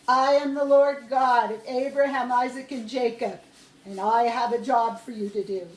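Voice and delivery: a hint of God speaking from the bush; lightly voiced God. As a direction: announce it with authority.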